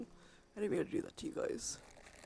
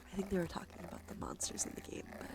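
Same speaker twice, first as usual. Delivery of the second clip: ASMR whisper. Acted. Streamer whispering an aside to her chat. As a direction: breathe the words, no voice at all.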